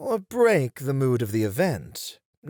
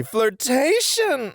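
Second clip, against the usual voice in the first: high, slow, grand flirtation; triumphant announcement; 10 semitones higher, slower than usual. Acted. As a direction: proclaim it with flourish. Teacher revealing lesson.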